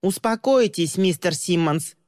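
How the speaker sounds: put-on old agent shouts at Tristin. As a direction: call out to calm him. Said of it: "выкрикнул".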